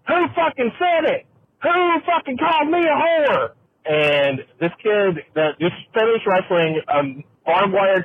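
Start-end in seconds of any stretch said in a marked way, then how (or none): 0.1-3.5 high-pitched furious yell; furious mom yelling. Retold or imitated. Angry mom shouting at the man who insulted her. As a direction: scream it like an insulted mother. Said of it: "this kid's mom comes out and goes".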